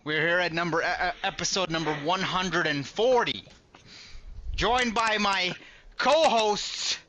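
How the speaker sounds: booming show host intro; loud sharp voice. Acted. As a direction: announce it loud and grand. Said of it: "Why are you yelling?".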